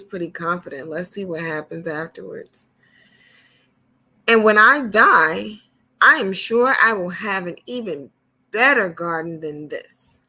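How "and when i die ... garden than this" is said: louder, puffed-up boast; boastful rich man. Acted. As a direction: brag like you own the world.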